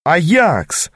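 high, delighted cry of greeting; joyful exclamation. A narrator's reading. Танда greeting old Аякс, exclaiming joyfully. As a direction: call out the name with joy. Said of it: "радостно воскликнула Танда".

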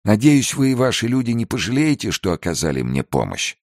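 put-on high-pitched eager old man; old trader. Old trader pays the guards for their help, high-pitched.

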